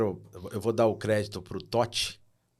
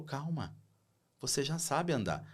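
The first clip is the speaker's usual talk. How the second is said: reassuring father; 4 semitones higher, 4 dB quieter than usual. Retold or imitated. Pai tranquiliza o filho.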